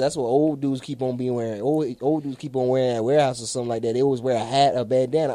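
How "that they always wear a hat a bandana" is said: ordinary talk, nothing marked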